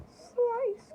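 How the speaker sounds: high, loud slashing cry; exclaimed sword slash. Acted. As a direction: shout it like a sword strike. Voices the sword cut.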